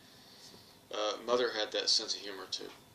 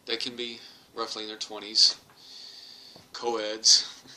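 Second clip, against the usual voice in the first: hammed-up plea to be punished; 5 dB louder than usual. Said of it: "my comeback was".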